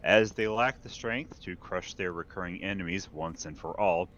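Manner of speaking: lightly voiced grand imperial announcer; imperial herald proclamation. Reads the news as imperial herald.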